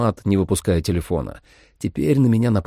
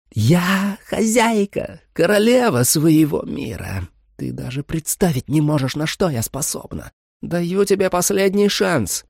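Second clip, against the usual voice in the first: sweet vampire mother; 9 semitones higher than usual. A narrator's reading. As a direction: lull the girl with fake tenderness. Vampire boasting.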